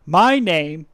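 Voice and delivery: slow, deliberate teacher introduction; slow teacher announcement. Retold or imitated. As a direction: spell out the name like a teacher. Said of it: "and she said".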